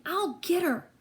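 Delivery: high, eager battle call; high yell without much volume. A narrator's reading. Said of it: "he yelled again".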